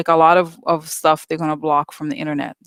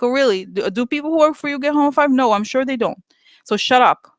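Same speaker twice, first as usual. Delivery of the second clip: sarcastic retort; 5 semitones higher than usual. Acted.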